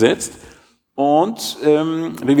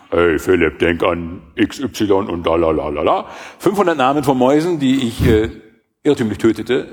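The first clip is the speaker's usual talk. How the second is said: ghostly accusing voice; 2 semitones lower than usual. Pretend. Imagined accusing voice in his head.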